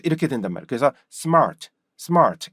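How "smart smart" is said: smart in one falling beat with an r; joined pronunciation. Shown as a demonstration. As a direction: run 습 straight into mart as smart. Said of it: "이렇게 발음이 될 수밖에". (한 박자로 smart)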